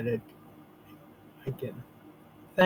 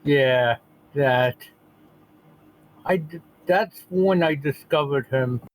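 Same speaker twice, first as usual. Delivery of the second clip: lisp. Real, not acted. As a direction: speak with a gentle lisp. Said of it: "Sorry for the lisp".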